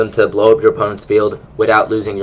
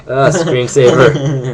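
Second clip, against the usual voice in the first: surprised; 3 semitones higher, much slower than usual. Real, not acted. Screensaver pops up unexpectedly.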